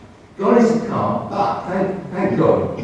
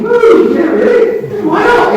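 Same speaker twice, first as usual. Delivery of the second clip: very high, loud mock whoop; hammed-up, sky-high humouring of a wild claim; mock enthusiasm; 11 dB louder, slower than usual. Doctor inwardly reacting to talk of a spirit guide, mock enthusiasm.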